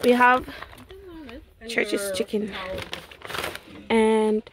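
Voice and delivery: raspy, worn-out voice; hoarse voice. Real, not acted. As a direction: voice gone after the wedding, hoarse. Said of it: "my voice is gone".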